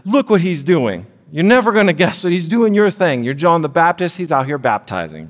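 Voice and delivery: high whiny gossip voice; tattling disciple. Retold or imitated.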